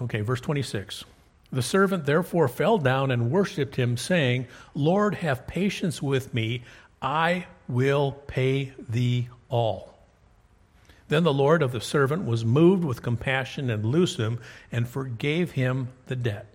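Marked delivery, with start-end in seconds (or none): 1.5-4.5 scripture reading. Acted. Reads scripture aloud. 4.8-10.0 pleading servant. Acted. Servant begs the king. 11.1-16.5 scripture reading. Acted. Reads scripture aloud.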